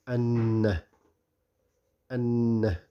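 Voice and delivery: doubled n held and hummed through the nose in "أن"; ghunna. Shown as a demonstration. Teacher models shadda on the noon for learners, ghunna. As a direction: linger nasally on the n of "أن". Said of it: "the noon will be doubled".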